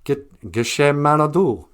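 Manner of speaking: Gitche Manadu said as "gee-shay mah-nah-doo"; French pronunciation. Retold or imitated. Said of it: "they have the expression".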